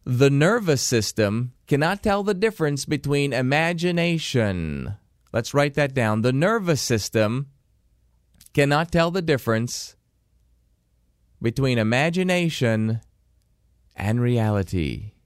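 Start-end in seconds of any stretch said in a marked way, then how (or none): 0.1-4.9 said briskly in one breath; quick first pass of the key sentence; quick first read. Shown as a demonstration. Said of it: "I'm gonna say it the first time quickly". 6.2-15.1 slow, phrase by phrase with pauses; slow dictation pace, each phrase set apart; slower for dictation. Shown as a demonstration. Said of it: "I'll say it slower so you can write it down".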